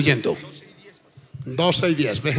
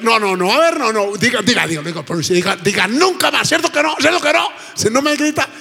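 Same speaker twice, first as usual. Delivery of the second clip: pressing plea; 4 semitones higher than usual. Retold or imitated. Wife pressing her husband to promise, urgent raised pleading. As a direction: push him hard for the promise.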